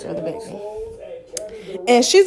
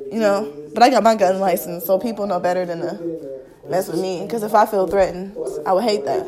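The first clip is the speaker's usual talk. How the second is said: understated warning; 6 semitones lower, 6 dB quieter than usual. Real, not acted. Half-veiled warning about self-defence.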